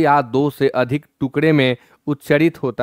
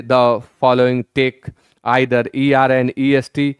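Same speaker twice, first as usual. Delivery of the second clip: reading the rule out slowly, word by word; much slower than usual. Shown as a demonstration. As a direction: dictate the textbook rule slowly. Reads English rule slowly. (नियम धीरे-धीरे पढ़ना)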